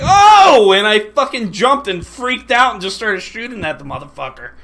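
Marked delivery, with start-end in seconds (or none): 0.0-0.7 high loud startled yelp; mimicked yelp. Mocking a teammate who yelled, a high loud yelp. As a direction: imitate a teammate's sudden yelp. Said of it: "and he's like".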